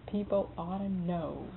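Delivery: slow, grave warning; a hint of solemn slow warning; dead serious. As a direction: lean in and say it like a secret. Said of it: "gets real serious".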